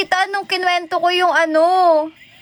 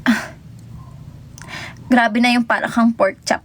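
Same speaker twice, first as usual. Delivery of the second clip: ordinary talk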